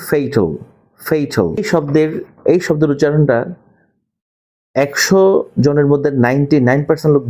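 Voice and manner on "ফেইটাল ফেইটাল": ফেইটাল said slowly twice as a model; model pronunciation. Shown as a demonstration. Teacher models ফেইটাল for students. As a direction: pronounce ফেইটাল carefully, clearly. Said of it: "উচ্চারণ হচ্ছে".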